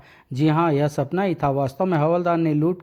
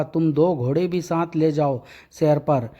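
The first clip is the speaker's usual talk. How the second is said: usual speaking voice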